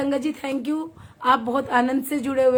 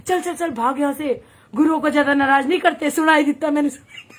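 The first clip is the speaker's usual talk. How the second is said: hurried, laughing shoo; laughing while imitating the mother shooing her off; a mother shooing her daughter away, imitated with a laugh; mock shooing mother; 5 dB louder, faster than usual. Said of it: "इतनी जोर से कहती".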